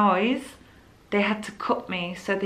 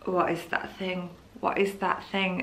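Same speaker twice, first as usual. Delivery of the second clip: shocked murmur; 5 dB quieter than usual. Retold or imitated. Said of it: "I literally just was like".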